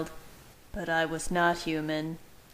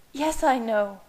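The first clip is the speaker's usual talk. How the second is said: a higher, louder sharp retort; snapped; 6 semitones higher, 4 dB louder than usual. Acted. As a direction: bite back impatiently. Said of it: "she snapped".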